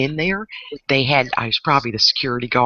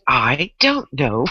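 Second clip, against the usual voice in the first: ditzy blonde; slower than usual. Retold or imitated. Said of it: "that was good".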